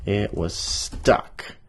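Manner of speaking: slow emphatic reading. Shown as a demonstration. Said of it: "high language".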